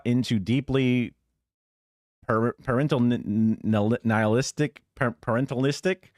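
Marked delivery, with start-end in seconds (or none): 2.3-6.1 stumbling with gum in mouth; chewing gum. Real, not acted. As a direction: talk around chewing gum. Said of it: "I have gum in my mouth".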